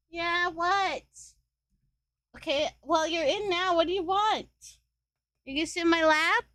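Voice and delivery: high-pitched pet talk. Real, not acted. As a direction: pitch it up, chatting to a cat. Talking to the meowing cat.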